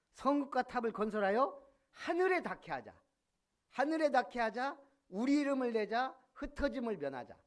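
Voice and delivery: loud, high proclaiming call; builders' rallying cry. Acted. Preacher voicing Babel's builders, loud rallying call. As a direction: rouse the crowd to build upward.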